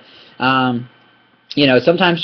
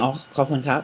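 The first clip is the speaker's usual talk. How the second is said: soft thank you; 9 dB quieter, much faster than usual. Shown as a demonstration. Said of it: "get away with just saying".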